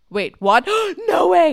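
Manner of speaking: mock, high-pitched, stunned, gasping disbelief. Retelling how she reacted when she saw the speaker, retelling her gasping disbelief. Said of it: "She's in disbelief".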